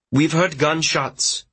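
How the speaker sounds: slow, steady, deliberately calm report; calm and careful. Acted. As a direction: keep it composed and even, no panic. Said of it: "He sounds so calm".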